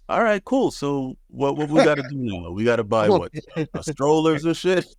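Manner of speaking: eager new dad planning ahead; eager excitement. Retold or imitated. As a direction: rattle it off excited. Retold eager reaction to pregnancy.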